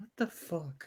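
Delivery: very quiet mutter. A player's character reacting under their breath, muttered super quietly. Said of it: "super quietly under my breath".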